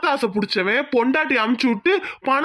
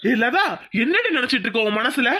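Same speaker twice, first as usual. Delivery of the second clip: angry confrontation. Acted. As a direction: accuse her, pushing faster. Angry husband confronts wife. (கோபமான குற்றச்சாட்டு, வேகமாக)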